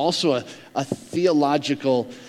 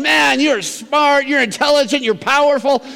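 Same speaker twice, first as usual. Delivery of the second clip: admiring crowd; 11 semitones higher, 5 dB louder than usual. Retold or imitated. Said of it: "Everybody's looking at him going".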